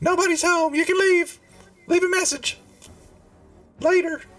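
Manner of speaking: very high, squeaky goblin creature voice. Voicing a creature the players hear behind a door, goblin voice. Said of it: "what sounds like a goblin voice".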